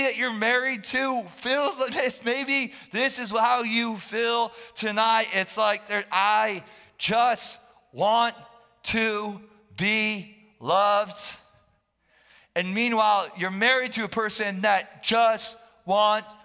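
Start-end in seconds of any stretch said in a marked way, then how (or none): 6.1-11.2 slow, spaced-out plea; mild plea. Acted. Pastor voicing someone who feels unloved, slow earnest plea. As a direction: draw each word out, lightly pleading.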